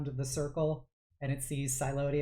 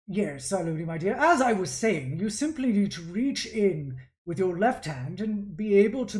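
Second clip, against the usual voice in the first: louder, measured instructing mentor; coaxing artificer father; 3 semitones higher, 5 dB louder than usual. Acted. Father resuming the lesson with his daughter, coaxing. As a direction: coax your child through the task. Game master plays the father.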